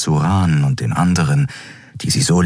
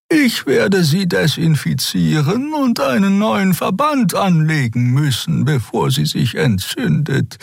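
higher, slow, caring but insistent; Xea, caring and firm; 12 semitones higher than usual. A narrator's reading. Xea insists on dressing Kero's wound, high firm care. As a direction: treat him like a stubborn patient.

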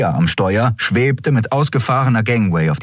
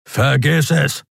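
shouted refusal; 7 semitones higher, slower than usual. A narrator's reading. Gruff refusal shouted back at her.

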